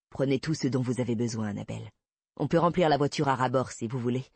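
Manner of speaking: a hint of a steady detective laying out the risk; understated male character voice, matter-of-fact; lightly voiced male investigator, composed.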